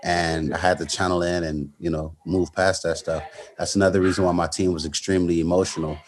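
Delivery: low, quiet, heavy-hearted telling; subdued. Real, not acted. Fighter tells interviewer about his father on life support, subdued. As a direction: keep it soft and low, holding the feeling in.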